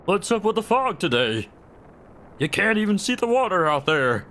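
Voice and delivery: attempted Australian accent, light. Chicken character chats about the fog, in an attempted Australian accent. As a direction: do your best Australian accent. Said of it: "my Australian accent".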